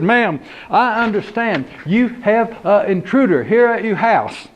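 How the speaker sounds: high, country yes'm; lightly voiced country deputy. Deputy greeting homeowner at door, country voice.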